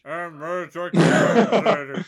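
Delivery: slow loud orc boast. Pretend. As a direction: boom it out like an orc.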